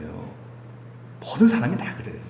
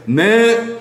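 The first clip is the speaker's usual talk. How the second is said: eager yes; 9 semitones higher, 5 dB louder than usual. Shown as a demonstration. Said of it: "하고 나아갑시다".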